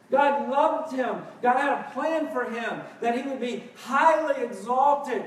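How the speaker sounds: emphatic, building sermon delivery; forceful preaching. Real, not acted. Preacher telling the church God never unloved Jesus, forceful preaching. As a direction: preach it with rising conviction.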